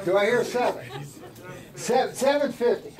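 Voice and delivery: lightly voiced auctioneer call; a hint of an auctioneer asking for bids. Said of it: "I feel like an auctioneer".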